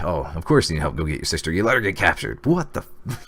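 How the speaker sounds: hammed-up exasperated comeback, rising pitch; exasperated mock retort. Exasperated retort in acted quote.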